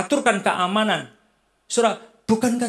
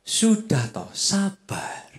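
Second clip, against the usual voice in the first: wise calm partner; much slower than usual. Retold or imitated. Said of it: "Biasanya pasangan yang bijak itu gini".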